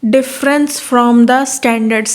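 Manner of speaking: reading the definition slowly, word by word; slow dictation. Shown as a demonstration. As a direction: dictate it so students can write. (धीरे-धीरे लिखवाते हुए पढ़ना)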